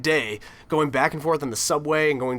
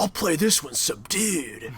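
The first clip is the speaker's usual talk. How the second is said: slow, softer deadpan movie-star voice; Keanu Reeves impression; 3 dB quieter, slower than usual. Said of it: "Now it's just Keanu Reeves".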